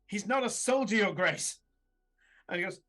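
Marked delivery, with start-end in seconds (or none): 0.1-1.6 protesting soldier. Acted.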